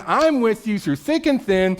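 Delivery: mildly bold pledge; bold, courageous. Acted. Peter promising to stand by Jesus, mildly bold. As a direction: pledge it with confidence. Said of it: "This is a bold statement".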